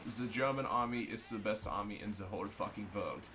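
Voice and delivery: mock-proud German accent. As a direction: declare it as a hammed-up German. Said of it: "I'm doing the German accent".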